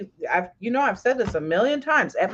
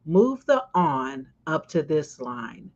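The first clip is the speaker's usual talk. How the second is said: slow, lower retold directions; measured instructions; 4 semitones lower, slower than usual. Friend directing exactly where things go, slow and deliberate. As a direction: spell out each move unhurriedly. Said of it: "as she told me".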